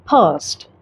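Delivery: फर्स्ट said with no R, a long open vowel and a hard T ending; British फर्स्ट, R dropped; British English first; British pronunciation. Shown as a demonstration. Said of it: "अगर आप British accent follow करते हैं तो आप इसे पढ़ेंगे".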